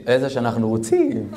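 repeats איזה שאנחנו רוצים through a laugh; chuckling as he echoes איזה שאנחנו רוצים. Real, not acted. Rabbi laughing at the hotel offer, chuckled echo.

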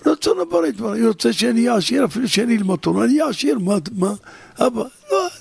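high, fast, tearful pleading; a son pouring out his love for Torah, high and urgent. Acted. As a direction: beg your father, voice climbing and breaking.

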